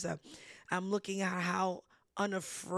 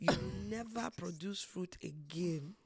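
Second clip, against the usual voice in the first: put-on a playful Jewish accent, slightly softer; mock Jewish accent; 3 semitones lower, 4 dB quieter than usual. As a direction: redo the curse in a joking Jewish accent. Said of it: "he said it with a Jewish accent".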